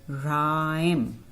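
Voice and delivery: "Rhyme" starting on plain R, long vowel; silent H in Rhyme. Shown as a demonstration. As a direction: say "Rhyme" drawn out as "raa-im". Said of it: "here the H is silent". ("Rhyme" को खींचकर "राइम" बोलें)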